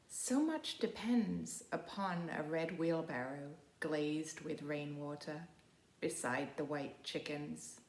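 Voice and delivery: slow, measured poem recital; poem reading. Acted. Librarian reading a poem to her students, slow and measured. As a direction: let each image land, unhurried.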